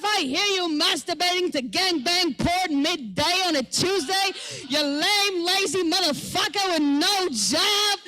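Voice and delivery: a hammed-up angry rant through the floor; angry yell back. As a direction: tell him off at full volume. Yelling back at neighbor.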